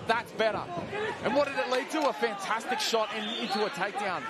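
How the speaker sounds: rising play-by-play excitement; excited. Real, not acted. Commentator reacts to takedown.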